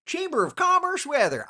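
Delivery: high, loud scornful quote; disdainful. Retold or imitated. Naming a weather cliché he dislikes, loud and scornful. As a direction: spit out the phrase you hate. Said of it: "I don't know why that's just like, ugh".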